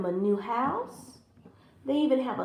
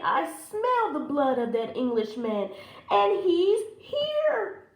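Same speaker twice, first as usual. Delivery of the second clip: mild giant roar; 6 semitones higher, 3 dB louder than usual. Acted. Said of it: "roared that giant".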